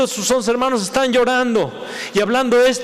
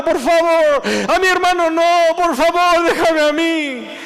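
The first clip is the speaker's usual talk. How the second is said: desperate pleading; 7 semitones higher than usual. Acted. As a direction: offer yourself in your brother's place. (Judá suplicando, agudo y fuerte, desesperado)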